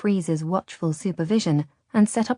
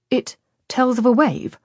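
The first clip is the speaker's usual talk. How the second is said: higher, questioning repeat; intrigued echo; 7 semitones higher, 4 dB louder than usual. A narrator's reading. Luca repeats Radu's claim, high and intrigued. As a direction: echo it back, pitched up in surprise. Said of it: "Luca repeated".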